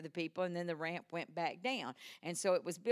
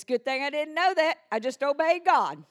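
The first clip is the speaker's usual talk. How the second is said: loud quote; 6 semitones higher, 10 dB louder than usual. Retold or imitated. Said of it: "My dad says".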